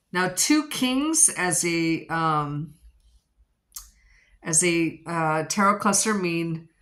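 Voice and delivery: breathless, talking between breaths; short of air while reading cards. Real, not acted. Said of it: "Sorry, I'm out of breath".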